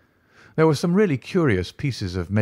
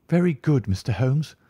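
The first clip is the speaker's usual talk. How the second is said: Very good said higher, deferential tutor voice; a lightly higher Very good, yielding to Holmes; meek tutor; 5 semitones higher than usual. Acted.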